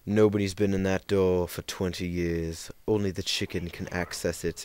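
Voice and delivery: lightly imitated creepy warning; mildly spooky put-on voice, subdued. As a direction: intone it with a hint of eeriness. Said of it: "really creepy voice".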